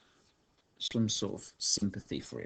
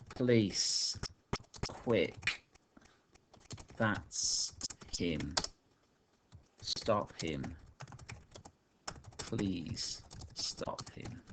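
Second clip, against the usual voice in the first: mock roar; much slower than usual. Shown as a demonstration. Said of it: "I roar".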